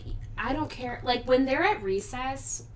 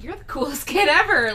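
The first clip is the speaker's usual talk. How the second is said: laughing praise; 5 semitones higher, 5 dB louder than usual. Retold or imitated. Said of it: "I'm like".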